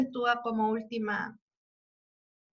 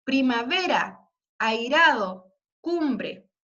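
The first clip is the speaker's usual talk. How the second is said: each end word primavera, airado, cumbre stressed and drawn out; reading the line endings; 3 dB louder, much slower than usual. Shown as a demonstration. Teacher showing end words to her class, stressed. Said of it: "Fíjense".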